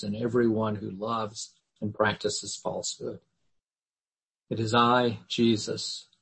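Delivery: measured, solemn reading of the passage; scripture reading. Acted. Teacher reads Revelation to the class, solemn reading voice. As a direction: read it like a lector at the lectern.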